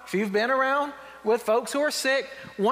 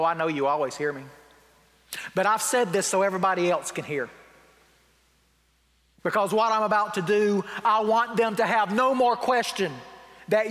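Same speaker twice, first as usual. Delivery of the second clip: Jesus, a little snippy; 2 semitones lower than usual. Retold or imitated. Preacher paraphrasing a prayer meant for onlookers, a little snippy. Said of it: "Jesus gets a little snippy".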